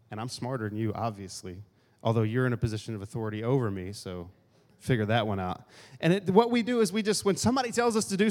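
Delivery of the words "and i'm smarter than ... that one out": sarcastic aside. Retold or imitated. Inner sarcastic grumble.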